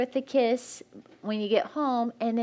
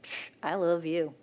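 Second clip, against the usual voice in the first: a scoffing "Psh, I love you"; a throwaway "Psh, I love you"; dismissive; 3 semitones lower, 3 dB quieter than usual. Shown as a demonstration. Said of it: "Or you can look at them and be like".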